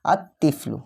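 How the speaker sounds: আত তিফলু with the t doubled and no l in the article; tashdid on ta. Shown as a demonstration. Teacher reads an example to students, doubled T in আত তিফলু. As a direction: hold the t between আত and তিফলু. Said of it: "এই জন্য আমরা এখানে তাসদিদ দিয়ে পড়ছি".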